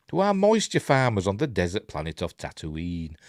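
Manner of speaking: lively, lilting news read; article read aloud. Acted. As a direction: read the story out like a light news item.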